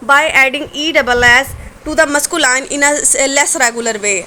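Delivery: very slow, each word set apart; dictating slowly. Shown as a demonstration. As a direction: read the heading out slowly for dictation. Teacher dictates the rule heading. (Notes के लिए बहुत धीरे बोलना)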